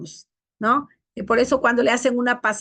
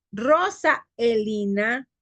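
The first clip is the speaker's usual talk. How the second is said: mom's stern full name; much slower than usual. Retold or imitated. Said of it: "Cuando mi mami me decía".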